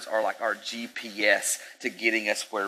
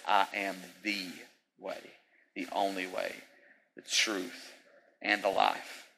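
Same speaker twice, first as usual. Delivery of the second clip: each phrase set apart by pauses; slow emphatic; 5 dB quieter than usual. Retold or imitated. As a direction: lay out the way, the truth, the life one by one. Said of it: "when he says".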